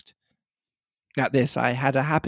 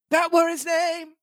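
Ben Gunn voice. Acted. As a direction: lift into a cracked old sailor. Ben Gunn voiced in read story.

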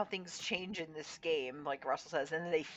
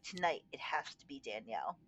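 whispered plotting aside; secretive whisper; 3 semitones lower, 6 dB quieter than usual. Retold or imitated. Russell quietly plotting with Colby, whispered. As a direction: breathe it like a secret nobody else should hear.

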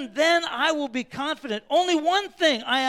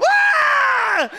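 much higher, loud startled yelp; startled shout; 11 dB louder than usual. Retold or imitated. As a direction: jump out of your skin with a cry. Couple startled by pastor's hand.

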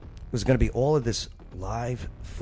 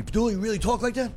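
incredulous sergeant; 11 semitones higher, much faster than usual. Retold or imitated. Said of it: "first thing he said to me".

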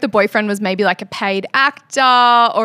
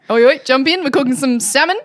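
mock Nathan; 4 semitones higher, 5 dB louder than usual. Voicing Nathan cooking.

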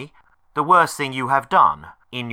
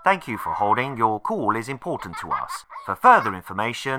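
phone menu voice. Acted. Automated phone menu recording.

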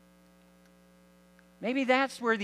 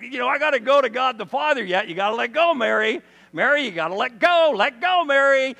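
insistent urging; 5 semitones higher, 7 dB louder than usual. Acted. Jesus urging clinging Mary to release.

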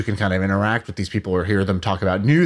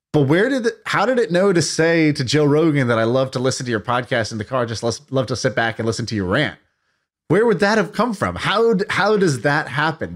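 amazed disbelief; 4 semitones higher than usual. Real, not acted. Amazed by the AI's remark.

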